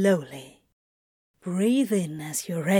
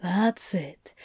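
whispered. Acted. Crowley coaching softly.

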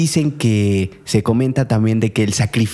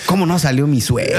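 mock dismay; 3 semitones higher than usual. Joking father's inner reaction.

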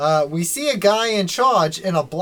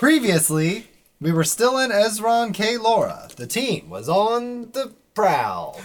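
measured, dramatic recap reading; recap narration; 3 semitones higher than usual. Acted. Game master recapping last session to the players, theatrical narration. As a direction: draw out the last words for suspense.

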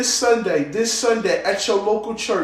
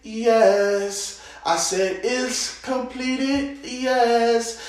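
slow prophetic declaration; 2 semitones higher, much slower than usual. Acted. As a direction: declare it calmly, word by word.

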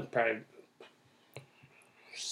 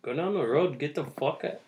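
put-on higher-pitched botched Canadian accent; badly faked Canadian accent, drifting elsewhere; 4 semitones higher, 3 dB quieter than usual. Playing a Canadian cop sending someone off, bad Canadian accent. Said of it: "That, that was a bad accent".

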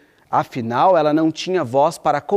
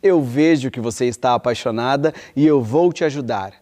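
King Triton; 4 semitones lower than usual. Acted. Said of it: "ele disse".

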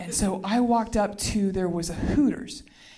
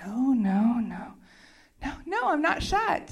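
retold denial; 2 semitones higher than usual. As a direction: deny it in mock rising disbelief. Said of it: "it just went just like this".

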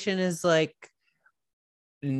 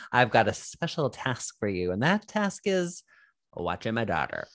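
imitated military man; 3 semitones lower than usual. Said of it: "military man comes in and is like".

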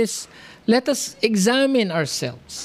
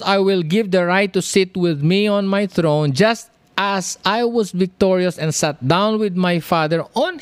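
scripture reading; 2 semitones higher than usual. Acted. Reads scripture aloud in sermon.

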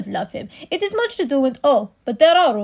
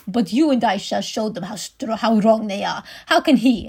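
put-on German accent; 2 semitones lower, 4 dB louder than usual. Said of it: "I only have a German one".

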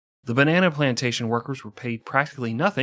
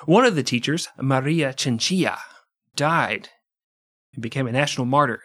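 solemn news anchor delivery. Acted. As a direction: read it like a serious newscaster. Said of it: "like a fucking news anchor".

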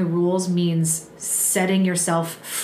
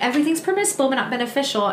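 higher, lightly mocking recital of a rule; pointed quoting; 4 semitones higher, much faster than usual. Churchgoer quoting Paul to talk someone out of it, pointed. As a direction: start high, as if this settles it. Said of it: "I'm gonna say it like".

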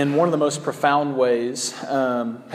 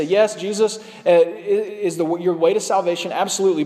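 false teachers' claim. Retold or imitated. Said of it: "and they say".

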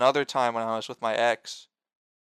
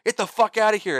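higher, pitched-up retold scream; mock furious yell; 9 semitones higher than usual. Furious dad blaming teens for his crying kid, imitated yell. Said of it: "Like, screaming at us".

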